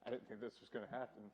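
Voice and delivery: choked up, trailing off quietly; real emotion welling up, voice dropping away; fighting back tears while speaking; getting emotional. Real, not acted. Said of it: "I'm gonna get emotional".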